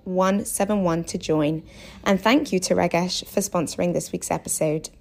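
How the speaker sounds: clear, measured podcast ad read; sponsor read. Real, not acted. Host thanks this week's podcast sponsor, scripted ad read. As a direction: read out the sponsor message with steady emphasis.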